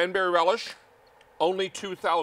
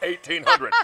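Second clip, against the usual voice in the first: high-pitched; 7 dB louder than usual. Real, not acted. Repeating number playfully.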